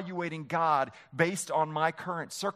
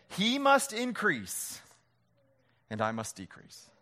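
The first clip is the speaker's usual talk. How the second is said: drawn-out "must", higher opening; slow declaration; 3 semitones higher, slower than usual. Pretend. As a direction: declare it against the odds. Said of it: "you said".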